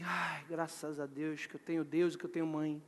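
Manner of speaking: low, soft sigh of gratitude; acted relief, low and soft; relieved thanks. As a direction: breathe out quiet, relieved thanks. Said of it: "eu falava assim".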